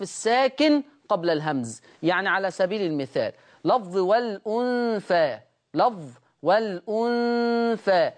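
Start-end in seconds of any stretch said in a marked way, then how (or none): 2.0-8.1 والأنثى read as walunthā, hamza dropped; Warsh transfer. Shown as a demonstration. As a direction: slide the lam straight onto the vowel in والأنثى. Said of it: "يحذف الهمزة".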